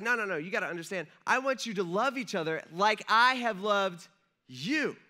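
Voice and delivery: lightly voiced Jesus urging his friends; voicing Jesus.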